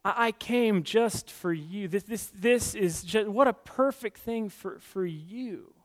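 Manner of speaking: slow, coaxing lure; a slow, tempting whisper of an offer; alluring temptation voice. Acted. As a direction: draw them in slowly, tempting. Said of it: "comes to us with this kind of alluring".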